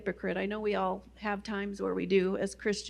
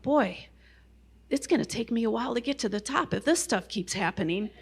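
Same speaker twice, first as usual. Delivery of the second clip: imitating her awed self. Her awed thought on the trail.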